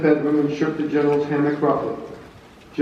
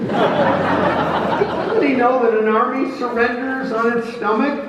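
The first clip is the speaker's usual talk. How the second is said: blustering general; 9 semitones higher than usual. Acted. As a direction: bluster through the excuse with a laugh. Grant joking, hungover.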